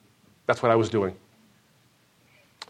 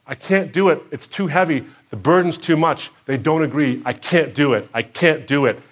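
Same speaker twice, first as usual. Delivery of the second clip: retold sobbing plea; 4 semitones higher, 4 dB louder than usual. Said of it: "saying out loud in the middle of the sobs".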